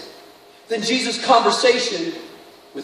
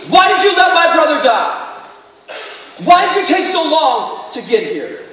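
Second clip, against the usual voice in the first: mild raised-voice reproach, acted; reproachful challenge; 5 semitones higher, 3 dB louder than usual. Martha confronts Jesus over her dead brother, reproachful. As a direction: protest as a grieving sister demanding answers.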